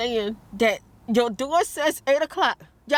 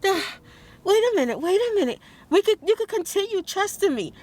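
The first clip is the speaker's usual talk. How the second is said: imitated pleading; 5 semitones higher, faster than usual. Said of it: "calm Nadine down and trying to".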